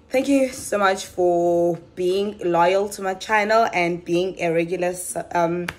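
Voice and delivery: breathless, short of air; talking while out of breath; running out of air. Real, not acted. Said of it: "I don't know why I'm running out of breath".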